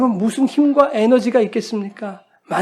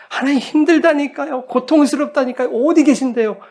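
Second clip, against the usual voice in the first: higher-pitched, acted plea to God; pleading complaint; 5 semitones higher than usual. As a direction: plead as a worn-out believer, pitch raised. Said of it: "하나님 앞에 나가서 우는 것이".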